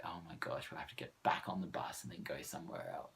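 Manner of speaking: hushed, half-whispered mock dread; worried whisper. Lost walker whispers a small worry about catching another bus. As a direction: whisper it like a small private panic. Fears getting stuck.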